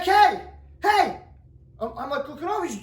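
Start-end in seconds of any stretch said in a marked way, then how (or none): 0.0-1.2 retold call across the park, mild yell; mock yell. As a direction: hail someone far off, half-hearted. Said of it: "he starts yelling over to me".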